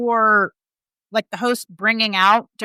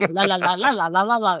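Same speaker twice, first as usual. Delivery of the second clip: telenovela voice. Retold or imitated. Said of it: "used car salesman voice".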